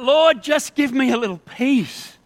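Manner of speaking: exasperated cry for relief; crying out in exasperation. Acted. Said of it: "and you cry out".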